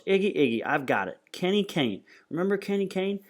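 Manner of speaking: high, eager outburst; excited woman, voiced by the narrator; excited recognition. A narrator's reading. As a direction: burst out with the remembered name. Woman jumps up with sudden recognition.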